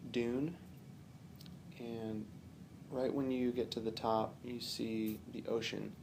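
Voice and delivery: calm, unhurried meditation guide with long pauses; relaxed guided-relaxation delivery, phrase by phrase; guided visualization. Real, not acted. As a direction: gently lead the listener through imagery, pausing often.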